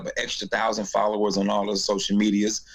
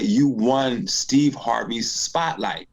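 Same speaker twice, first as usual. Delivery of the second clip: friend's announcement; much slower than usual. Retold or imitated. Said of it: "He said".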